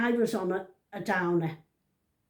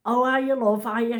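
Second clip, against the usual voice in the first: called out warmly, louder; calling out; 3 semitones higher, 6 dB louder than usual. Retold or imitated. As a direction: call across the street. Waving back, calling to granddaughter.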